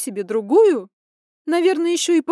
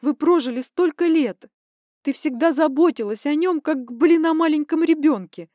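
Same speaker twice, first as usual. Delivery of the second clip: high, loud, furious daughter venting; indignant rant; 7 semitones higher, 8 dB louder than usual. Acted. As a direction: pour it all out in rising outrage. Daughter ranting about cheating father.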